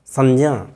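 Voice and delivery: "संज्ञा" said as sanj-ya, with a j; palatal pronunciation. Shown as a demonstration. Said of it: "अब इस तरह से". ("संज्ञा" में ञ और ज की ध्वनि)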